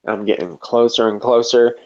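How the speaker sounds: ordinary talk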